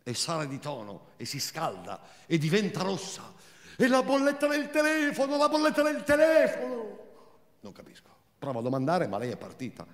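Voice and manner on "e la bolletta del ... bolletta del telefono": much higher, furious repetition; Marina's thin voice. Acted. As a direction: rage about the phone bill, high and thin. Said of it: "quella sua voce sottile e inadeguata". (voce sottile, furibonda)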